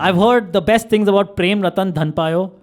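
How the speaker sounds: slow, fake praise with irony; sarcastic. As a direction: say it as if you mean it, but mock. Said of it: "I'm being sarcastic there".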